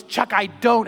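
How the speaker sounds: retold exasperated protest. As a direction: imitate her pleading objection. Girl protests in retold argument.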